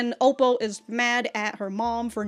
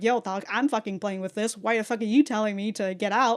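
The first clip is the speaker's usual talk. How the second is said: put-on upset, protesting tone. Retelling a cartoon scene, voicing a character's protest: imitating an upset character. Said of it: "upset at that".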